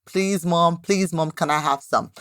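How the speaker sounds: lightly imitated pleading child; mock begging. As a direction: plead a little, like a child asking Mom. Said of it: "we keep begging".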